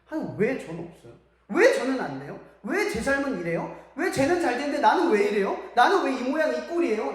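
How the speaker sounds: mock grumbling prayer, mildly aggrieved; acted resentful complaint. Praying person asks God why life is unfair, resentfully. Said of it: "원망부터 시작해요".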